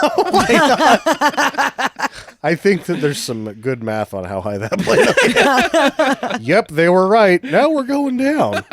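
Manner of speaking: high giggly talk; laughing. Real, not acted. Laughing at absurd scene.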